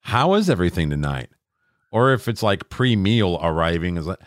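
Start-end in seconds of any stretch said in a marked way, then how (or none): 0.0-1.3 a touch of showy hospitality; restaurant owner. Acted. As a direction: play a mildly overeager host. Mimics restaurant owner greeting tables.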